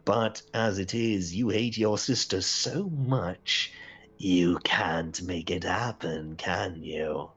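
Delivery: slow, knowing taunt; lightly voiced mocking accuser; taunting figure in a story.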